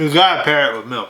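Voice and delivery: talking while chewing; words around a bite of cookie; mouth full. Real, not acted. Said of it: "I'm talking with my mouth full".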